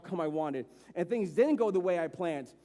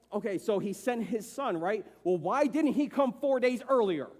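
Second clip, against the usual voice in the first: heated; 2 semitones higher than usual. Retold or imitated. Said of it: "I'm getting heated".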